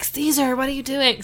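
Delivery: lightly hammed-up Chicago accent, with a laugh; put-on Chicago accent. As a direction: act out a protest in a mock Chicago accent. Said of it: "Keep doing the accent. I love it".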